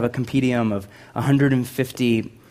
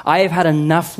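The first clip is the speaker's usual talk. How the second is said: tired plea; 4 semitones higher, 3 dB louder than usual. Acted. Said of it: "prayed that he might die".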